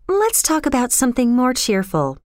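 lightly voiced girl, tune falling at the end; evasive girl. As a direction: steer away in a high girl's voice. Girl evasively changes the subject.

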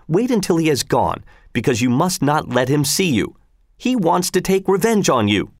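a hint of a nagging housewife objecting; fretful mother. Wife warns about Gessler.

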